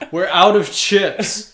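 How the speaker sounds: drawn out plaintive clerk; high, loud, slow mock clerk. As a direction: moan it like a fed-up cashier. Clerk voice, repeated bit.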